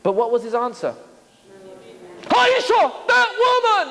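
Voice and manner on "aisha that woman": accusing whine. Pretend. Adam blaming Eve.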